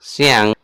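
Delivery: सियांग said with a gliding si-ang; Chinese pronunciation. Shown as a demonstration. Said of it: "pronunciation होता है उस तरह होता है सियांग".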